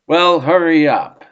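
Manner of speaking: impatient hurry. A narrator's reading. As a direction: push him along, impatient. Bilbo impatient with Gollum.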